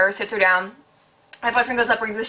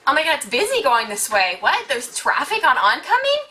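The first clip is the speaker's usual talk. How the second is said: mock surprise; 4 semitones higher than usual. Mocking the old lady's thinking.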